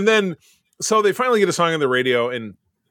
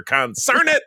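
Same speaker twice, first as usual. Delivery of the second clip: put-on high, cranky old prospector; a hint of an old gold miner grumbling; grizzled prospector voice; 10 semitones higher, slower than usual. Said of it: "talking like a grizzled eighteen nineties prospector".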